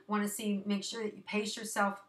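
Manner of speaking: slightly winded speech; out of breath. Real, not acted. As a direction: talk a little out of breath. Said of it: "I'm a little bit, like, out of breath".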